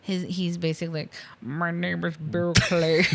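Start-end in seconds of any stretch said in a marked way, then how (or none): 1.4-3.0 slow, mangled mock American accent; bad American accent. Hans lying to John as Bill Clay, bad American accent. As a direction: badly fake an American accent. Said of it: "so his American ac".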